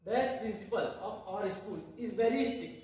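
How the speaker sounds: very slow, word by word, stress on very; teacher rereads the example sentence to students, very slowly; slow dictation again. Shown as a demonstration. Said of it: "तो ये देखिए".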